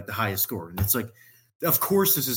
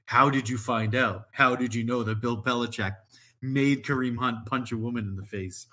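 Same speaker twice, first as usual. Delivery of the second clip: sarcastic. Retold or imitated. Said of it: "in the most sarcastic thing ever".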